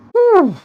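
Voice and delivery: high, puffed-out exhale; a winded sigh before the race; breathless whew. Real, not acted. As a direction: blow out a relieved whew. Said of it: "I'm out of breath already".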